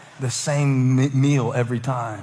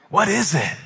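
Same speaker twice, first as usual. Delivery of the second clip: higher-pitched puzzled question, falling at the end; curious wonder; 7 semitones higher, 4 dB louder than usual. Acted. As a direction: act out first-time amazement. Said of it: "I'm curious".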